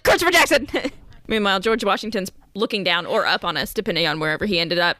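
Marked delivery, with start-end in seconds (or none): 0.0-0.7 quick eager blurt. Retold or imitated. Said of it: "I was like".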